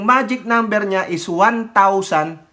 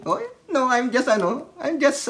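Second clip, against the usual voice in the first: flustered backpedal; 6 semitones higher than usual. Retold or imitated. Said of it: "sabi niya".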